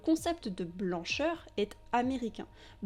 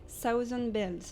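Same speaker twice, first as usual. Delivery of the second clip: "Southern Belles" said in an English accent, dropped into French; an English accent on the borrowed words. Shown as a demonstration. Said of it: "vous excuserez mon accent anglais".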